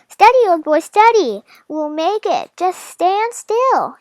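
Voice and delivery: lightly voiced steady reassurance; slow gentle hint of a soothing father; father calming dragon. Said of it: "he told the dragon".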